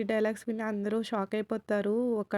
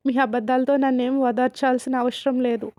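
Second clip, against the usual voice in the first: louder mock shout; angry retort; 6 dB louder than usual. Rishi to his aunt refusing comfort: loud mock shout. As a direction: push away the comfort, voice raised.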